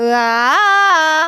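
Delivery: lazy, slow, drawn-out glide into 으아. Showing a practice movement done too slowly: slow '으아'. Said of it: "이런 식으로 하시면 조금 늦게 돼요".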